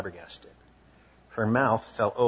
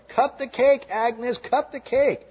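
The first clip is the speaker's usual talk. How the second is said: much higher, much louder chant, drawn out; cheering yell; 12 semitones higher, 8 dB louder, slower than usual. Retold or imitated. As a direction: cheer it on like a crowd. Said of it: "Everyone cheered and yelled".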